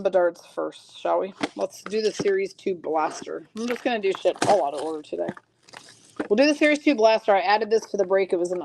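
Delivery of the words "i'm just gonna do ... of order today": usual speaking voice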